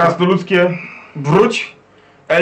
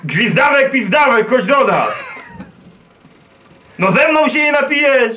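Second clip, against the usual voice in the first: put-on boisterous drunk dwarf; 5 semitones higher than usual. Dwarf hails friend to drink.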